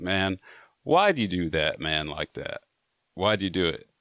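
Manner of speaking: ordinary talk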